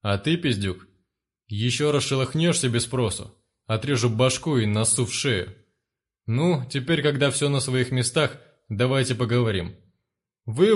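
a hint of a cold, gloating gang leader; lightly voiced brute laying down his terms; menacing thug boss. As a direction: gang leader telling the family they will die. One-eyed threatens the family.

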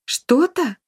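high, outraged "Что-то?"; indignant echo. A narrator's reading. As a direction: throw the word back in disbelief. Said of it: "возмутилась Софи". (возмущённо, высоко "Что-то?")

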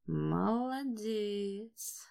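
soft, very slow murmur; quiet praise. A narrator's reading. Lord Rupert praises the dog quietly. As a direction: praise him under your breath. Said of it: "негромко сказал лорд Руберт".

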